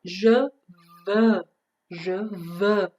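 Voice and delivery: je veux word by word, rounded eu in veux; careful French model. Shown as a demonstration. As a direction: model je veux with a pause between words. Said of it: "دقت کنیم درست تلفظش کنیم".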